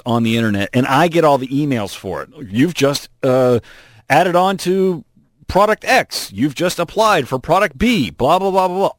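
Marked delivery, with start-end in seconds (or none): 2.5-8.1 mocking singsong of spam emails; lightly sing-song spam notice. 8.1-8.9 high, dismissive blah blah; bored mocking singsong. Real, not acted.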